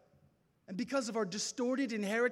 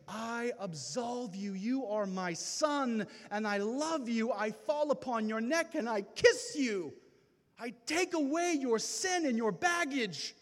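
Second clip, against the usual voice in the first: voice of God; 4 dB louder than usual. Acted. God welcoming his son back, tender then rising louder. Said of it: "hear the voice of God say".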